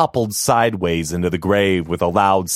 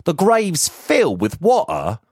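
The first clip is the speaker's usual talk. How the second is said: much higher, timid workman's voice; a nervous laborer apologizing to his master; humble gravedigger; 10 semitones higher than usual. Acted. Gravedigger explains.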